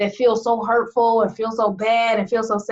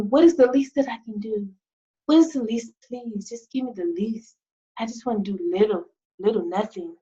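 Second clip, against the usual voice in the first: whiny lazy plea; 4 dB quieter than usual. Retold or imitated. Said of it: "So many people wanna do".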